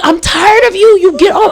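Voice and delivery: high, exasperated mock yell; retold hollering. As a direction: re-enact a mom at the end of her rope. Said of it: "I was in there hollering".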